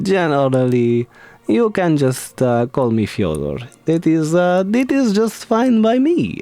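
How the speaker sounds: bad Russian accent for a D and D character; wandering Russian-inspired accent. Shown as a demonstration. Streamer introducing a necromancer character, in a wandering Russian accent. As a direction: let the Russian accent wobble playfully. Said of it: "my accent's going a little all over the place".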